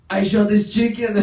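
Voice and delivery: loud, high, laughing dad impression; gleeful punchline. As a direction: crack up while shouting the punchline. Dad cracking up at own joke.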